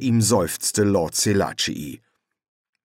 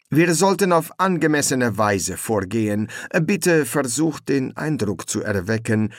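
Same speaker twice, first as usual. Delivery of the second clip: higher, courtly royal voice; suave prince voice; 5 semitones higher than usual. Acted. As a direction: play a smug, polite prince. Prince speaks to general.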